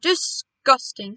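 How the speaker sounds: slow, loud disgust. A narrator's reading. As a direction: drag the word out in revulsion. Father rejects worm burgers.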